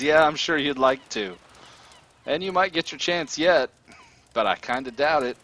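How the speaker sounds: cocky villain talking down to a prisoner; amused villain. Acted. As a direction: brush off the threat, loud and taunting. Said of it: "He laughs".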